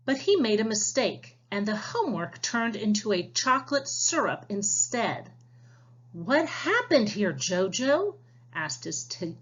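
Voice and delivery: lively storybook read-aloud for the class; reading to children. Acted. Teacher reading a storybook aloud to her class. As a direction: read it like a picture book to young listeners.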